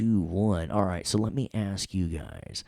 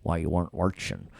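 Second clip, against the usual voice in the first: New York "watching" with an R slipped in; New York accent; faster than usual. Real, not acted. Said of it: "my New York accent, to put R's".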